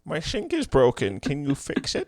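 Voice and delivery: slow put-on Indian accent. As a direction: ask it slowly in an Indian accent. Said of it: "Who, who can do an Indian accent?".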